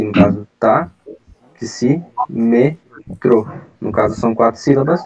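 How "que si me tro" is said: si, me, tro, said slowly syllable by syllable; counting out the syllables for the group; syllables split apart. Shown as a demonstration. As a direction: tick off each syllable of taxímetro. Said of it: "vou separar aqui".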